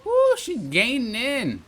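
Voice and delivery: slow, high excited woo; urgent as she closes in; excited alarm. Real, not acted. Racer alerts viewers, excited as a rival closes in.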